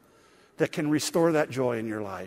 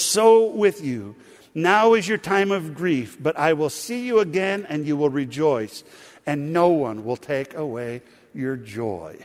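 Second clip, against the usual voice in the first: slow, solemn, louder scripture read; 3 dB louder than usual. Acted. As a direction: read it out slowly for the congregation to follow. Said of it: "would you read it with me".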